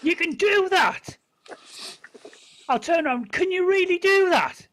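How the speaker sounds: high, loud amazed questioning; astonished. Acted. Traveller hears of herd man threat, astonished. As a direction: ask in rising amazement. Player's character reacts to the threat.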